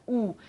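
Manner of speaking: U with lips pursed tight; U com bico menor ainda; tight U, smallest pout. Shown as a demonstration. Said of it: "E U menor ainda".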